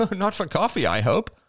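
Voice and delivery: light laugh through the words; joking, half laughing. Acted. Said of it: "laughed Crystal".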